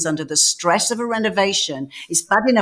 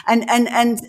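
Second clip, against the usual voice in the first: normal talking voice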